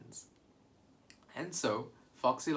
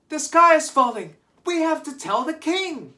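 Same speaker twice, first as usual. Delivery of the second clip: panicked shout; 12 dB louder than usual. Acted. Birds panicking in story.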